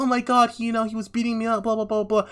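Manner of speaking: high-pitched retold wail, no real tears; mock crying. Woman telling the painter of her captivity, mock tearful. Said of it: "she starts crying".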